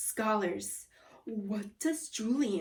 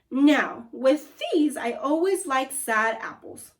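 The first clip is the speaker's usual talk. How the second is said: showman wizard; 3 semitones higher, 7 dB louder, slower than usual. Acted. Wizard proudly serving.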